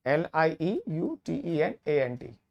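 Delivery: slow, letter by letter spelling for students. Shown as a demonstration. Teacher spelling lieutenant for first-time learners, slow and deliberate. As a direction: spell each letter slowly and clearly. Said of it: "एक spelling वाला part भी है".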